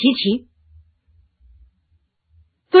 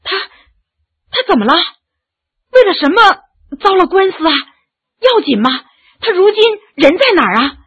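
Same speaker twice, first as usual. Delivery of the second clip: higher and louder, urgent and worried; anxious questions; 6 semitones higher, 3 dB louder, faster than usual. Acted. Yu'er asks anxiously about Lemin's lawsuit, alarmed. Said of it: "着急地问".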